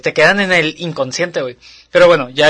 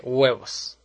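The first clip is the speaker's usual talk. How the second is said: imitating Monster House girl; 5 semitones lower, 6 dB quieter than usual. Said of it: "la niña que dice".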